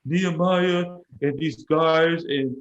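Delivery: half-acted weepy babble, slowly; mock crying. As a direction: imitate someone too upset to explain. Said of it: "she can't even explain anything".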